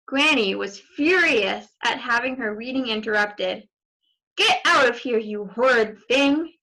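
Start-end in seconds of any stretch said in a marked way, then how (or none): 4.4-6.5 mild cry. Acted. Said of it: "she cried".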